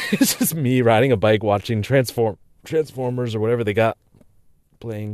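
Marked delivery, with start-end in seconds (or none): 2.6-5.1 talking through hiccups; hiccuping mid-sentence. Real, not acted. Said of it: "Got the hiccups all of a sudden".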